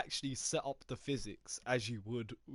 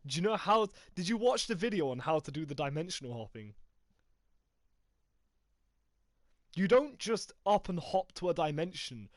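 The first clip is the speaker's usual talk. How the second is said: higher, louder indignant defending; heated protest; 4 semitones higher, 4 dB louder than usual. Real, not acted. Gamer defending his idea to friend, heated protest. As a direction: push back hard, he didn't listen.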